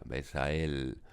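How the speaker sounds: "besa el" linked without a break; synalepha. Shown as a demonstration. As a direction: run the "a" of "besa" into "el" as one syllable. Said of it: "habría que pronunciar".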